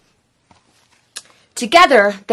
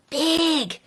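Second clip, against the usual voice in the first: 1 whispered; 6 semitones higher, 8 dB quieter than usual. Acted. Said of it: "whispered Gloom".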